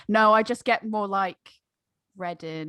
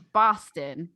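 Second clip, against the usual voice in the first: Boston accent demo; 5 semitones lower than usual. Shown as a demonstration. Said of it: "it's like".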